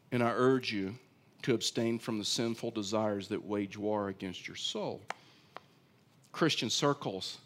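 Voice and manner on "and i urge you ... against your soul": scripture reading. Acted. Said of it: "let's just read it".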